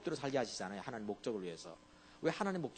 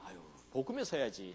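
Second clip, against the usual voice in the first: mock pious sigh; 8 semitones lower than usual. Mocking a pious believer.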